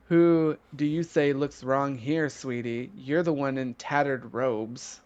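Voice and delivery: unhurried, softly trailing superiority; lording over him. Acted. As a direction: talk down with condescending sweetness. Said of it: "lords over him".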